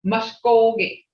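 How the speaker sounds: MUSKOGEE as mush-KOH-geh, long level middle; full, sustained middle in "Muskogee"; tone built in. Shown as a demonstration. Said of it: "that tone's already there".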